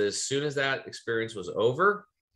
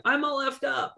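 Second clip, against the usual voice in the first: tearful. Retold or imitated. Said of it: "she just starts crying out".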